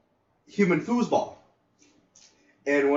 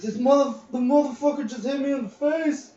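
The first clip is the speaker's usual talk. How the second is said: put-on higher whiny kid voice, wounded; upset kid; 10 semitones higher than usual. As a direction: complain like a hurt teenage boy. Hurt kid complaining, voiced higher.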